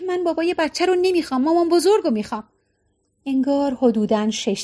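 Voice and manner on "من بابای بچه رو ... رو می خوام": put-on childish whine, quick at the end; whining. Fiona whines to the nurse for her mother-in-law, childish whine. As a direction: whine it like a six-year-old. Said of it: "فیونا نالید".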